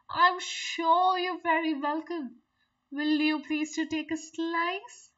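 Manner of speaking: lightly voiced sly spider, sweet and coaxing; a hint of a scheming host luring a guest in; cunning spider. Spider coaxing the fly into his parlour, sly and sweet. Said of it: "Said the cunning spider to the fly".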